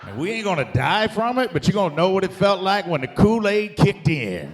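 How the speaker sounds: high and loud, building comic frenzy; rising rant. Acted. Comic ranting to the crowd about a NyQuil binge, loud. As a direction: whip the crowd up to a fevered peak.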